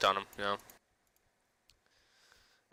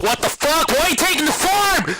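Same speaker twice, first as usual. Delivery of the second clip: mock yell, much higher and louder; imitating yelling players; 10 dB louder than usual. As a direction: squeal it like an enraged kid teammate. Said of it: "started yelling".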